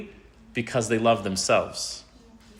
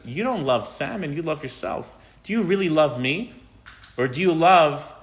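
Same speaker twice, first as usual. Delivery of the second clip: doubting friend; 2 semitones higher than usual. Pretend.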